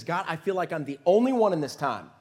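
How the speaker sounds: lightly acted woe-is-me protest; self-pitying prophet. Prophet moaning to God in a pity party, self-pitying. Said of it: "He's kinda having a pity party".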